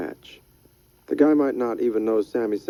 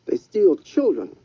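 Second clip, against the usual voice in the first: higher, slow warning; Freddy, slow and ominous; 8 semitones higher, 3 dB louder, slower than usual. Acted. Freddy tells Rydell what bridge people do, slow and ominous. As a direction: drag it out like a grim secret.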